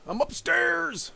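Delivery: high, drawn-out realisation; surprised exclamation. Real, not acted. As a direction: blurt it out in surprise.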